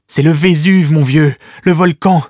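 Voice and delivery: put-on a frightened young girl sounding the alarm; girl warning her cousin, high and alarmed. Lily names the volcano.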